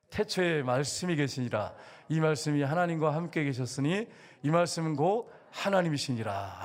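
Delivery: measured congregational Bible reading; steady, formal recitation of scripture. Acted. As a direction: read the verse aloud for all to follow.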